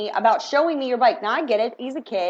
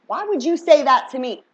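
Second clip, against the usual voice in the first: louder disbelief; 3 semitones higher, 5 dB louder than usual. Shown as a demonstration. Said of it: "Now, why would you say that to me?".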